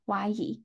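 怀疑 with 疑 rising in second tone; second tone demo. Shown as a demonstration. Teacher models 怀疑 for students, 疑 rising in second tone. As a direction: say 怀疑 slowly, lifting 疑 in second tone. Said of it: "H Y Y二声怀疑".

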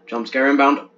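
loud announcer-style warning; playful loud heads-up; mock alarm. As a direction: call it out like a trailer voice.

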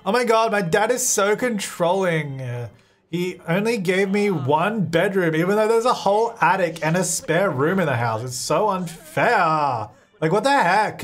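lightly hammed-up teenage complaint about dad; whiny teen. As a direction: whine like a hard-done-by teen. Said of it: "Whine about unfair life".

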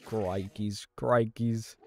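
put-on British exclamations; British accent. Gamer reacting to the Enderman, accidental British accent. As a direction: slip into a mock British accent. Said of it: "where the British accent came from".

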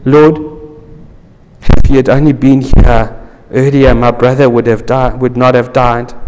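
lightly voiced grieving sister, gentle; tender lament to Jesus. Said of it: "she said in a tender voice".

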